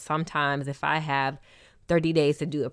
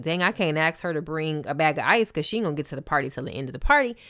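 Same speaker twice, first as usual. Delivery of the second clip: exasperated friend; 3 dB louder, much faster than usual. Retold or imitated. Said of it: "It makes you look like, you know, like".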